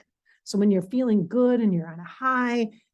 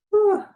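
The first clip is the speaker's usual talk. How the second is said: heavy sigh; 13 semitones higher, 5 dB louder than usual. Real, not acted. Exhausted venting to viewers.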